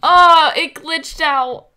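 deflated shock at the glitch; groaning realization; dismayed surprise. Real, not acted. Glitch ruins the reveal.

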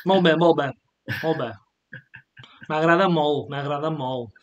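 playful demo of Catalan accent; short phrases repeated in a Catalan accent. Shown as a demonstration. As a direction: put on a Catalan accent for the learner. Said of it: "I'm doing the Catalan accent".

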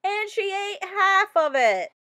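half-crying disbelief; a touch of a comic whine; dismayed wail. A narrator's reading. Unicorn ate crayon again.

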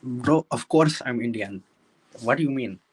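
lightly put-on Indian accent. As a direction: tease with a mock Indian accent. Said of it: "mocked the Indian accent".

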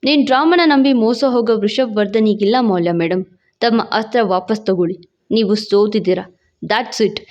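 low, cold male voice; contemptuous husband. A narrator's reading. Husband rejecting his wife's account, coldly scornful. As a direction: dismiss her in a low, mocking tone.

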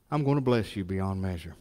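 a hammed-up God making a promise, low. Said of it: "in a God voice".

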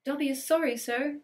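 high, anxious little elf squeak. Acted. Elf apologising to startled Harry, anxious squeak. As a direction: squeak it out, nervous house-elf. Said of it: "squeaked Dobby anxiously".

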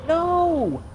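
loud, high cry of alarm; real panicked yell. Real, not acted. Gamer yelling at the screen as the boss attacks, panicked shout.

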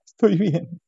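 lightly acted martyred wife. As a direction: sigh "Estoy bien" as a suffering martyr. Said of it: "con voz cortada, con tono de mártir".

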